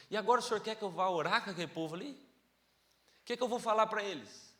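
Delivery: upset complaint to God. Retold or imitated. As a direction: argue with God, hurt and annoyed. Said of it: "E eu fiquei bravo com Deus".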